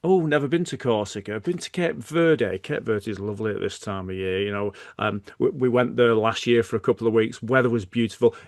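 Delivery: hijack the chat with your holiday; mock self-centred friend; self-absorbed chatter. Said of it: "You're now into this thing about Cape Verde".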